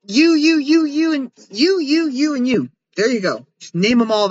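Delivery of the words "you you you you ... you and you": high, playful pointing at each one; playfully naming quadruplets; mock naming the babies. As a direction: tick off each identical baby, high and bright. Mock-naming identical armadillo babies.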